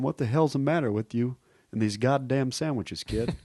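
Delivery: put-on a light Southern gruff scold of a kid; Billy Bob Thornton impression. Shown as a demonstration. Comedian demoing voices to podcast hosts, light Southern scold. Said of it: "identical to goddamn Billy Thornton".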